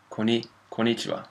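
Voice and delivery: konnichiwa with the double n dropped, ko-NEE-chiwa; foreign mispronunciation. Retold or imitated. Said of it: "I heard some people say konnichiwa".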